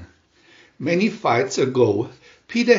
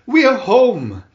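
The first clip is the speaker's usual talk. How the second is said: much louder, higher joyful yell; louder excited shout; 6 semitones higher, 6 dB louder than usual. Acted. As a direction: shout it even bigger. Children shouting arrival.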